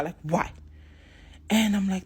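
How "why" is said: a touch of angry challenge; retold anger. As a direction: demand it back, mildly cross. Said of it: "with anger".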